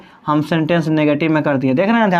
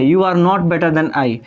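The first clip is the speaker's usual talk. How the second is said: slow dictation; much slower than usual. Shown as a demonstration. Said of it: "अब इसका मतलब देखिए".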